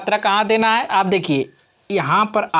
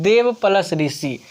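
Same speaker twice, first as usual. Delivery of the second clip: slow, spelled-out. Shown as a demonstration. Teacher to class, repeating the sum slowly. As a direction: slowly repeat देव plus ऋषि. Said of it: "क्या है?".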